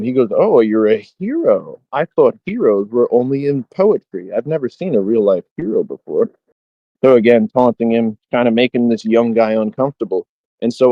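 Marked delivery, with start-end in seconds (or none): 0.3-6.3 lightly mocking, swooping on the key words; retold taunt, lilting and sarcastic; mock admiration. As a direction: tease him with fake awe at meeting a hero. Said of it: "starts making fun of him".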